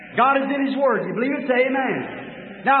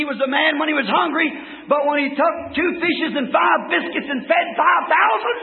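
full-force preaching; 3 semitones higher than usual. Acted. The preacher drives the miracles home to his congregation, shouting.

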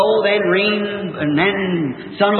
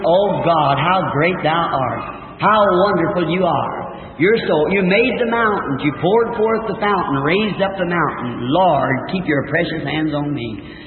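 low, slow reverent praise; reverent prayer; 3 semitones lower, slower than usual. Retold or imitated. Hunter praying to God in the storm, reverent. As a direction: pray it slowly, lower toward the close.

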